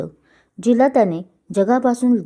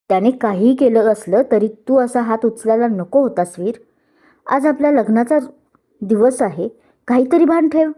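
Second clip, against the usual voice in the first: raised, higher angry scolding; 3 semitones higher than usual. Acted. Bride scolding the groom on their wedding day, angry. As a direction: scold him hard. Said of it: "काव्याने रागात वीरकडे पाहिलं".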